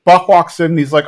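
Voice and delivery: normal talking voice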